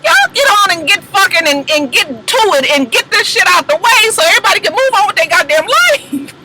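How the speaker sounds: high exasperated rant; exasperated yell. Retold or imitated. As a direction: shout at them to get on with it. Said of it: "emotion to say".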